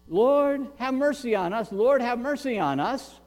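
lightly acted pleading cry; retold calling out. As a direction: call out like a beggar seeking mercy. Beggars calling out to Jesus.

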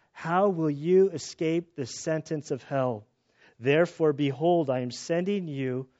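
scripture reading. Acted. Pastor reads Jesus' woes to congregation, forceful scripture reading. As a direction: declaim the passage like a preacher.

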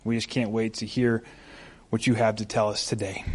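low, soft, earnest prayer; hushed pastoral prayer. Real, not acted. Leads a prayer.

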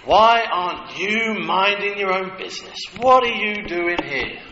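put-on older brother yelling at David to go home; brother losing his temper. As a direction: snap at the kid brother, furious. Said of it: "lost his temper".

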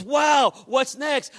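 high-pitched retold excitement; bursting to know, pitched high; excited. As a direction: imitate an eager man jumping up and down. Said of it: "He's so excited. He's jumping up and down".

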